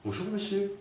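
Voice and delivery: a proper lady asking a stranger politely. Retold or imitated. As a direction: play the polite elegant lady. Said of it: "très poliment d'ailleurs".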